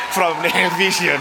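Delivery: hammed-up French accent announcing nominees. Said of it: "I will maybe do some Spre-, French accent".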